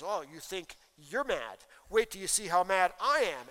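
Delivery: a mock husband escalating the fight; a lightly voiced angry husband. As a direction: throw it back at her, spoiling for a fight. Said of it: "And the foolish guy says".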